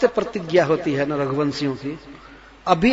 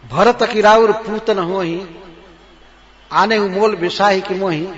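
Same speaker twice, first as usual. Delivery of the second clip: raised voice as Kaikeyi; loud Kaikeyi; 2 semitones higher, 5 dB louder than usual. Acted. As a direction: declaim it loudly as the angry queen. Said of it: "जोर से बोलती है". (कैकेयी की ऊँची आवाज़)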